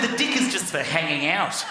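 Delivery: imitated New Zealand receptionist's vowels; New Zealand accent. Receptionist explaining the pool deck, New Zealand accent. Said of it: "She said".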